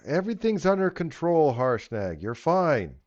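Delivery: high, loud reassuring guard. Acted. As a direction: soothe the giant from the gate.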